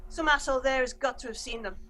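barked military briefing; brief the squad like a stern major; gruff officer. Acted. GM voices the major.

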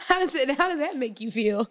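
calm, measured therapist asking feelings. Acted. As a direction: gently probe like a counselor. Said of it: "This is my therapist voice".

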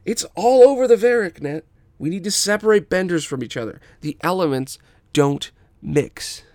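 high, loud zealot; ranting bully. Acted. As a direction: preach it fast. Firebender rants.

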